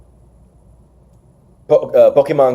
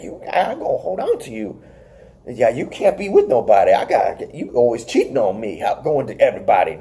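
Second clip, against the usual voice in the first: softer, lightly acted doting scold; talking to his child; 3 semitones lower, 5 dB quieter than usual. Wrestler talking to his child, soft mock-possessive scolding. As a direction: lower the volume, lightly mock a jealous parent. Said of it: "he's talking to his child like".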